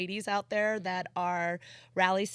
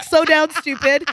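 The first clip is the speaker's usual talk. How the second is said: louder mock warning; imitating the cop's warning; 6 semitones higher, 12 dB louder than usual.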